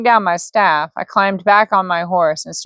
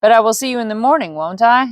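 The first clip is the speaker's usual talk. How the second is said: Bo's voice; 4 semitones higher, faster than usual. Acted. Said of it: "Wrong voice".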